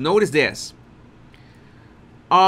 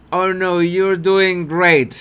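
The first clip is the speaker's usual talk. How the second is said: snark; 3 dB louder, slower than usual. Retold or imitated. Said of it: "that's a snark".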